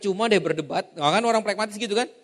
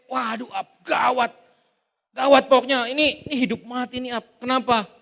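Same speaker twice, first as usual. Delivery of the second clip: mock panic; 4 semitones higher than usual. Sanguine panicking over trifle.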